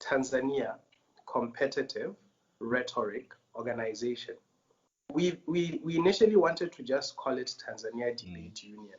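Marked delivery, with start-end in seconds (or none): 0.0-4.4 slow, deliberate, each word drawn out carefully. Repeating a long organization name after calling it a mouthful: said a little slowly. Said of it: "I'm gonna say it a little slowly".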